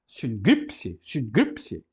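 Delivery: "Sincrípse" said sun-GIP-se, the gamma as an N sound; gamma read as N. Shown as a demonstration. Teacher shows students how to read the gamma, careful. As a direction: read "Sincrípse" with the nasal N before the G. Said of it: "aquele gama tem que ler como N".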